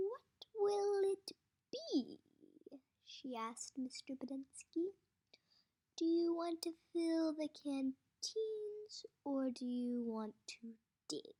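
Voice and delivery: cold ultimatum. Acted. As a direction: make him choose. Warden ultimatum.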